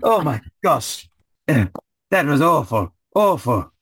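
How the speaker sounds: high, slow shaken gasp; shaken knight. Acted. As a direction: let it out like he just survived torment.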